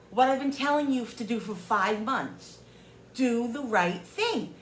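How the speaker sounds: retold exasperated demand. Woman retells telling seller off, exasperated. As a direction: drive the demand home, drawn out at the end.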